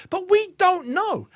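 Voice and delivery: "don't know" drawn out high and slow; slow emphasis. Retold or imitated. Quoting a boxer's doubt about a prospect, slow and emphatic. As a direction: stretch each word of "don't know" for weight. Dwelling on a quoted catchphrase.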